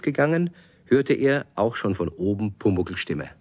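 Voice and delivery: put-on calm storyteller reading to children; story narration. A narrator's reading. Narrator tells the children the story, calmly. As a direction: tell it gently to kids.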